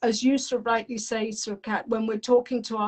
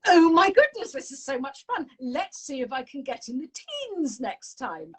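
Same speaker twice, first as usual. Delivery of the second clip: put-on a little girl thrilled with her golf; delighted child; 3 semitones higher than usual. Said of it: "Alice said to this mum".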